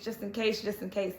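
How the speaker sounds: mock anxious repeat, fading. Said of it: "stop saying, like".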